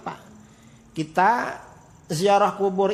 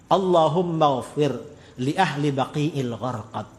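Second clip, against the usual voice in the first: recited prayer; 5 semitones lower than usual. Retold or imitated. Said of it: "lalu mendoakan".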